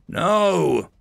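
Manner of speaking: high, drawn-out horrified "no"; stretched, disbelieving cry; shocked gasp. A narrator's reading. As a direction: recoil in shock and horror. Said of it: "the ape man gasped".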